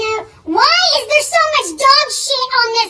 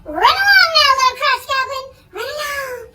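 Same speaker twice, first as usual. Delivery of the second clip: high sing-song shoo-away; fake-sweet mom shooing her son; 5 semitones higher than usual. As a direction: shoo the kid off with mock sweetness.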